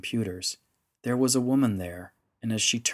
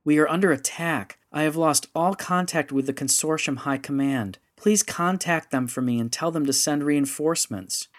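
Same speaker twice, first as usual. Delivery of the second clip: higher and louder, urgent plea; pleading harder, voice climbing; rising, desperate pleading; 6 semitones higher, 4 dB louder than usual. Acted. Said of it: "her voice rising in pitch and volume".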